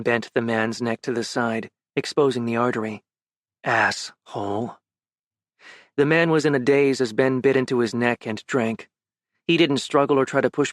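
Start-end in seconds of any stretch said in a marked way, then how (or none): 3.6-4.8 low, slow, soft sneering echo; mocking imitation. Ben mocking the mugger, low sneering echo. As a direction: sneer his own insult back.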